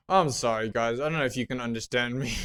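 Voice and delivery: slurred numb speech; talking through a numb mouth. Real, not acted. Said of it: "I sound so weird".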